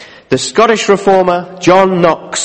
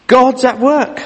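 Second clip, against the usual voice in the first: God's at work lifted higher, rising at the end; lighter, higher echo of the point; higher bright restatement; 6 semitones higher, slower than usual. Acted.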